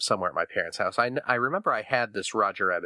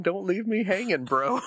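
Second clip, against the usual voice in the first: imitated child; 10 semitones higher than usual. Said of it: "my four-year-old should not be saying".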